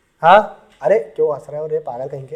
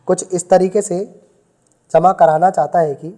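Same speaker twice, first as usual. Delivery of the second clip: dictation. Shown as a demonstration. Teacher dictating a word problem to the class, measured dictation. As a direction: read it out so students can write it down. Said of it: "लिखो जरा".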